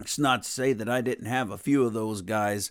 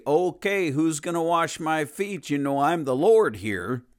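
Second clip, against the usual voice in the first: higher, louder bossy demand, hammed-up; mock domineering demand; 5 semitones higher, 4 dB louder than usual. Preacher imitating a bossy Jesus he never was, mock demanding. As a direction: bang the table and demand service, in mock. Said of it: "smash his hand on the table and say".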